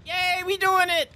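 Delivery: sing-song goofy character voice; silly cartoon voice. Cartoon quote while playing.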